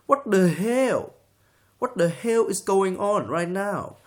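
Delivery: high, loud Asian accent, "the" spat as "duh"; slow, incredulous Asian accent parody; guttural mock Asian accent. Shown as a demonstration. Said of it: "very strong guttural sound that you can just spit out".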